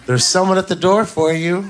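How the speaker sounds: fake-nice call to him; mock sweetness from the girlfriend; all nice. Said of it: "Then she comes back all nice".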